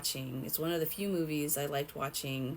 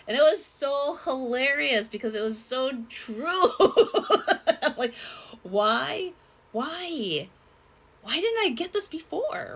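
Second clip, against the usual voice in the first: high, loud laughing disbelief; giddy, laughing realization; 9 semitones higher, 8 dB louder than usual. Real, not acted. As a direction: laugh through it, amazed at yourself. Laughing at remembered joke.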